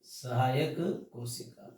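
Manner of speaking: "सहायक कोशिका" spelled out slowly for notes; slow dictation. Shown as a demonstration. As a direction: say "सहायक कोशिका" slowly and clearly so students can write it. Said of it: "ये हो गया सहायक कोशिका". (धीरे-धीरे "सहायक कोशिका" लिखवाते हुए)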